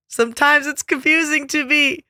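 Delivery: drawn-out sing-song diva delivery; lightly hammed-up pop star drama; campy diva line. Mock diva bit about seasons.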